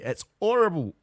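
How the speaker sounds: a first go at Cockney with dropped h; Cockney accent. Acted. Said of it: "I can't do a Cockney accent".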